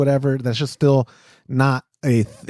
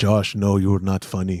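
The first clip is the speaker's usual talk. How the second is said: put-on low German-accented voice; 6 semitones lower than usual. Trying an impression of Stefan: Stefan impression. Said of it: "I don't know if I can do a Stefan impression".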